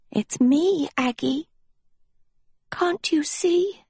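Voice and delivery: high, slow plea; pleading. A narrator's reading. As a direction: beg her to see you. Sophie pleading.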